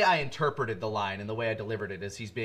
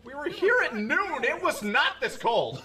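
laughing through words; giggling while talking; 13 semitones higher, slower than usual. Real, not acted.

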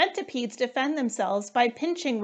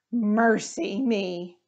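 shocked exclamation; slower than usual. Acted. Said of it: "Miss Mingo cried".

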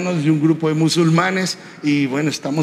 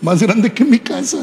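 awed exclamation; 2 semitones higher, 3 dB louder than usual. Real, not acted. Preacher marvels at hotel suite.

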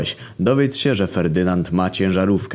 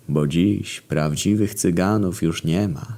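velvety voice. Acted. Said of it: "odpowiada swoim jakże aksamitnym głosem".

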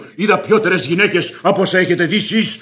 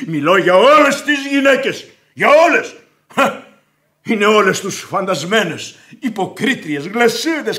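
rising higher and louder on όλες; building rant; 5 semitones higher, 4 dB louder than usual. Acted. Man ranting at the widow about women, building shout. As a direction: hammer όλες, louder the second time.

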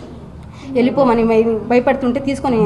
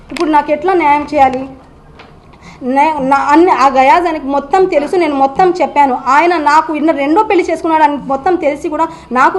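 rising upset; 3 semitones higher than usual. Real, not acted. Wife pleading with reporters for justice, voice rising in anguish. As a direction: pour out the injustice, growing more agitated.

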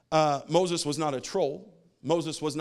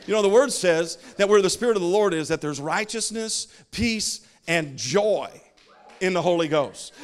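preaching; 4 semitones higher, 5 dB louder than usual. Real, not acted. Preaches to congregation on joy.

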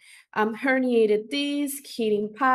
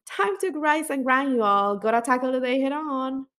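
Southern accent; 2 semitones higher than usual. Shown as a demonstration. Teacher reading slang to students in a Southern accent. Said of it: "I'll try my best Southern accent".

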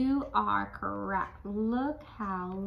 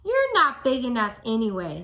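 grouchy put-down; 3 semitones higher, 7 dB louder than usual. Acted. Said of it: "let's say this together".

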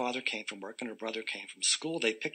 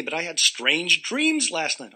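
dreamy; 6 semitones higher, 5 dB louder, slower than usual. Acted. Amy tells principal, dreamier.

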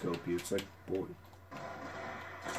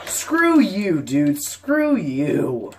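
louder, higher raging shout; real angry shout; 5 semitones higher, 7 dB louder, much slower than usual. Real, not acted. Gamer cursing an enemy player, real angry shout. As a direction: blast it at the screen in real anger. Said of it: "I'm getting so pissed".

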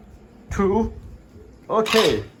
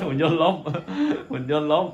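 laughing. Real, not acted. Robot toy falls over.

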